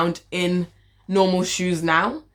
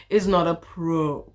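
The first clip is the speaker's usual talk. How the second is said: whispered mock scolding; 2 semitones lower than usual. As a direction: whisper the telling-off. Same scolding repeated as whisper.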